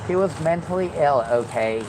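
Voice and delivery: lightly nerdy, prim voice; nerdy white voice. Pretend. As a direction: say it like a prim nerd. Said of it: "in my nerdy white voice".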